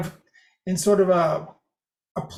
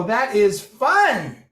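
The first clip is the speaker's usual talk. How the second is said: rising start pitch; much slower than usual. Shown as a demonstration. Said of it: "So you can go".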